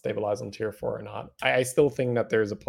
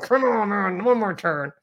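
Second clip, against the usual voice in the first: frustrated plea; 10 semitones higher, 4 dB louder than usual. Retold or imitated. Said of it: "You're like".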